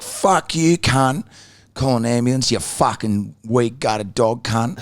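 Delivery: mock-angry rant, starting high; imitated abusive outburst, easing off; retold spray of abuse. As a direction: re-enact spraying someone with insults. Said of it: "Fucking spraying him up".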